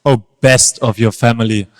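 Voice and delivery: deep, deliberate interrogation; concerned teacher. Acted. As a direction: press your pupil for a confession, keeping control. Upset teachers question pupil.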